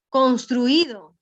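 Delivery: slow, drawn-out construido as in a dictation; dictating teacher. Retold or imitated. Teacher recalling her own professor's dictation, slow and deliberate. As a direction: dictate the word slowly and firmly. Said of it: "y nos, y nos dijo".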